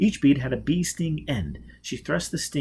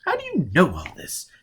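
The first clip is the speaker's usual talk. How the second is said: uneasy whisper; 6 semitones higher, 4 dB louder than usual. Acted. Robin uneasy, questioning Foyle.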